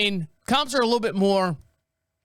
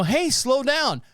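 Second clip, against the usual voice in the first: higher, slow mock warning; mock call-out; 6 semitones higher, slower than usual. Imitating the driver warning the cop to slow down.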